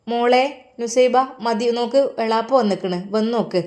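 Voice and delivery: mother raising her voice to fetch her; calling out. Acted. Mother calling daughter to come.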